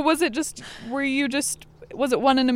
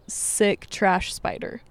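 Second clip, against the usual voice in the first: disgusted; 4 semitones lower, 5 dB quieter, much slower than usual. Real, not acted. Disgusted muttering.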